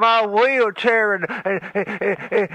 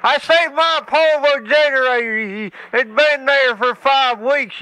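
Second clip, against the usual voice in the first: put-on stuttering old redneck; 3 semitones higher than usual.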